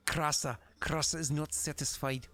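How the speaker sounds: thick put-on accent with weighty delivery; Shinny accent. Shown as a demonstration. Game master demonstrates a terrible accent, thick put-on accent. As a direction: play an unsatisfied character in a bad accent. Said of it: "if I do my Shinny accent".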